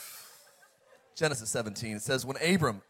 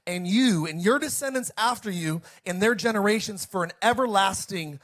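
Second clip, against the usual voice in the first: lightly voiced divine proclamation, higher-pitched; preacher proclaiming as God; God speaking; 5 semitones higher than usual. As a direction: read it as God's solemn promise, in emphatic phrases. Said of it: "and God talked to him".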